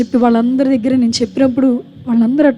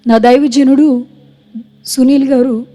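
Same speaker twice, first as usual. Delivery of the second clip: public vow. Retold or imitated. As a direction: proclaim it boldly so everyone hears. Vow to mourners at funeral.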